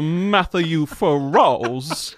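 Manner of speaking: slow, drawn-out Southern hick twang; hick Southern accent. Acted. Host introducing the producer in a slow hick drawl. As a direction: stretch it out like a country showman. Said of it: "really, really hick".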